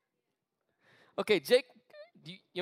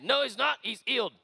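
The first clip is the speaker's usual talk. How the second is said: higher-pitched imitation English accent; 5 semitones higher than usual. Healer answering freaked-out pastor, in an English accent. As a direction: put on an English accent to insist. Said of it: "'Cause he had this English accent".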